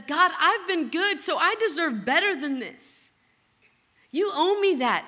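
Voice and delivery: entitled prayer. Retold or imitated. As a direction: demand what you think you deserve. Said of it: "that subconscious way of living says".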